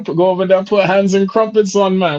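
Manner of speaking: joking fake Scottish brogue; mock Scottish accent. Shown as a demonstration. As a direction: throw on a bad Scottish accent for the hands and crumpets line. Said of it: "say that shit one more time".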